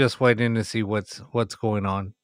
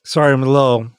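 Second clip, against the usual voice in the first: yawning; 2 semitones higher, 5 dB louder, faster than usual. Real, not acted. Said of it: "started yawning a little bit".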